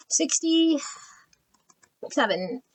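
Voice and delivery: breathy whisper, very slow. Real, not acted. Whispering the card number to herself.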